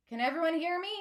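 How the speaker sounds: calling out over a room; nearly shouting. A narrator's reading. Vera straining to reach the back of the room, nearly shouting. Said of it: "she's nearly shouting".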